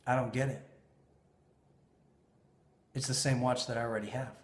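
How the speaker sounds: stone cold. Retold or imitated. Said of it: "this is stone cold, straight in the face".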